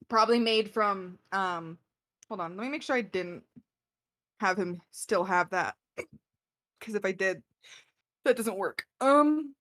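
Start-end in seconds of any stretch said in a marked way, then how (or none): 2.3-9.5 talking through hiccups; speech broken by hiccups. Real, not acted. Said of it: "I am hiccuping so bad right now".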